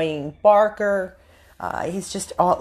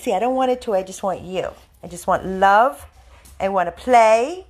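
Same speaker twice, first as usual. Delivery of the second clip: voice for the dog; 2 semitones higher, 4 dB louder than usual. Pretend. Speaks as the dog to viewers.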